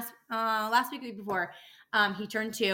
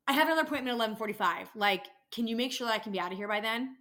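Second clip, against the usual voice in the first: rushed patient; faster than usual. Retold or imitated. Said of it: "and say".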